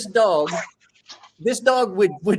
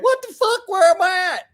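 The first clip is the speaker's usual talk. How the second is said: very high, loud panicked whine; whimpering dog voice; lost dog voice; 13 semitones higher, 5 dB louder than usual. Retold or imitated. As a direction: voice the dog lost in the closet, frantic.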